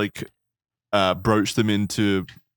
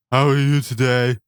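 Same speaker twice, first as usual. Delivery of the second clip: fat nerd voice. Acted. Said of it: "your fat nerd voice with the lazy eye".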